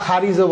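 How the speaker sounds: "খারিজও" opening on an aspirated kh; C like kho. Shown as a demonstration. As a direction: start "খারিজও" with a puff of air on the k. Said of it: "সি এর উচ্চারণ খয়ের মতো হয়". ("খারিজও", শুরুতে "খ" ধ্বনি)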